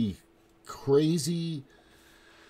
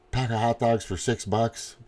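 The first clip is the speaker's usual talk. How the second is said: ordinary talk, nothing marked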